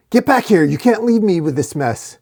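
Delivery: high shout easing into complaint; calling after someone. A narrator's reading. Dork calling the shield back, shouting. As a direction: yell it back, then protest being abandoned.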